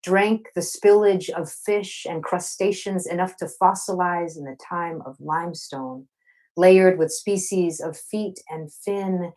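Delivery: slow, rhythmic poetry reading with weighted repetitions; spoken-word poem. Acted. Queer poet reading her love poem to a Zoom audience. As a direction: linger on the refrains like a love song spoken aloud. Reads poem Canyon Ocean.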